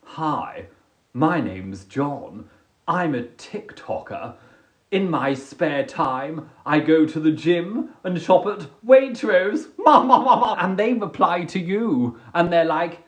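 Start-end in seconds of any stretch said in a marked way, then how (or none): 0.1-9.7 dull date. Retold or imitated. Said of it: "you're like".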